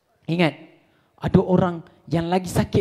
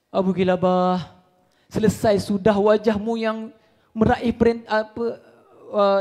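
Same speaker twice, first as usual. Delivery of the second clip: solemn eulogy. Acted. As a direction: intone it like a lament over the dead. Eulogy over Abu Kilabah.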